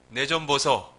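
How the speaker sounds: imitated Gyeongsang accent; Gyeongsang dialect. Shown as a demonstration. Preacher translates a polite "excuse me" into Gyeongsang accent. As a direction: say it like a Gyeongsang local. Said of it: "경상도".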